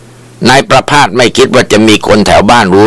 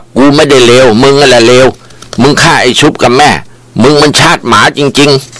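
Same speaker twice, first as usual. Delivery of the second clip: higher, slowing into a curse; angry husband; 5 semitones higher than usual. A narrator's reading. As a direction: hurl the insult, dragging the last line. Ram cursing Prapas.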